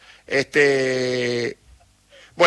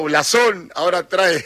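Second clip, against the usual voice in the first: laughing. Real, not acted. Host laughing about listener messages.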